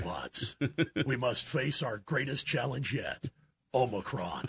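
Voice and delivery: deep booming villain speech; booming echoing villain monologue. Pretend. Transformer villain line acted out.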